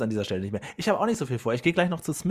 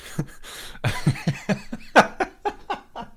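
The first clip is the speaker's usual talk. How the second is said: giggle; 7 semitones higher than usual. Real, not acted. Laugh after offer.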